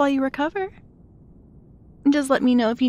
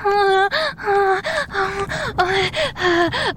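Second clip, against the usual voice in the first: moaning; 4 semitones higher than usual. Acted.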